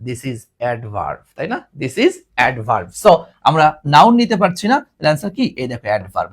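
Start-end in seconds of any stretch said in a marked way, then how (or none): 0.1-1.2 very slow, lower and softer; teacher declaring the rule slowly; slow confident declare. Shown as a demonstration. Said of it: "চোখ বন্ধ করে বলে দিব". 1.8-2.9 very slow and lower; teacher repeating the rule slowly; slow confident declare. Shown as a demonstration. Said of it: "চোখ বন্ধ করে বলে দিব".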